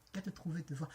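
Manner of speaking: put-on low warning in an African accent. Woman warning the driver off after giving directions, African accent. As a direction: warn him off in an African accent. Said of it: "Avec mon accent africain".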